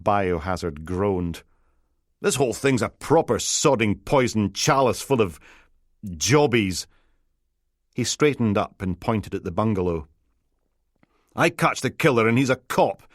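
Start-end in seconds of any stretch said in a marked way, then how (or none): 2.2-6.9 lightly voiced, moaning DI; a hint of a sulky grumble; a touch of a put-upon whinge; grumbling detective. Biohazard grumbles. 11.3-13.0 a hint of a whiny, panicky DI; fretful detective. Biohazard lists bad outcomes.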